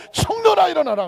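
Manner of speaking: loud, high commanding cry; 명령하는 외침. Acted. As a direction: call the dead to rise. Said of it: "그리고 예수님 말씀합니다". (높고 크게 명령하듯)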